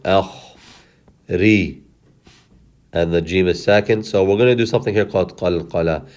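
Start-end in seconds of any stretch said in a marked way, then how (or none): 0.0-1.8 Akh, pause, then Ri; scraped kh closing Akh, separate Ri; syllable by syllable. Shown as a demonstration. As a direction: isolate Akh and Ri. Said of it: "The kha is second".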